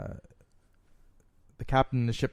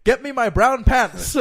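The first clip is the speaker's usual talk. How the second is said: high, very loud, drawn-out order; shouted command; 13 semitones higher, 12 dB louder, slower than usual. Acted. Captain facing three enemy ships, slow shouted order. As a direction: bellow the punchline as the captain.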